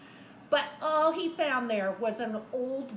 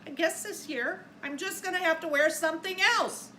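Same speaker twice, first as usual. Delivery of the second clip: Santa voice; 5 semitones higher, 5 dB louder than usual. Acted. Santa speaks in read-aloud.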